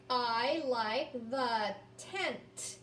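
very slow, word by word; slow read-along. Shown as a demonstration. Teacher reading with young learners, very slow word by word. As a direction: stretch each word so kids can follow. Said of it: "Can you read that sentence now with me?".

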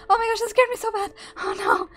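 breathless after a jump scare; rattled after a fright. Real, not acted. Just got startled.

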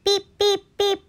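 high, short beeps; Little Blue truck horn. Acted. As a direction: toot like a friendly little truck. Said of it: "says Little Blue".

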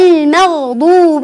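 المغضوب said slowly, each sound clear; slow model. Shown as a demonstration. Teacher models المغضوب slowly for the children to copy. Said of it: "بهذه الطريقة".

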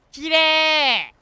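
excited. Real, not acted. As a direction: gasp out how pretty it is. Seeing lights. (感激した声)

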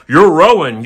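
loud, high mock Irish line; imitating Irish film dialogue. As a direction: ham up a thick Irish accent. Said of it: "then they're going".

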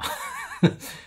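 short breathy scornful laugh. Real, not acted. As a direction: laugh at their foolishness. Laughs at self-inflicted harm. (轻蔑地笑了一声)

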